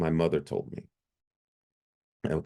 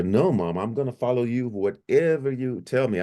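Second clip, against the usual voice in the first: higher-pitched, willing reassurance to mom; happy, eager promise; 5 semitones higher than usual. Retold or imitated. Son promising his mother he will obey, happy. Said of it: "I was so happy to see her".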